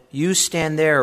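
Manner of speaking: curt dismissal. Acted. Usher ordering poor man away.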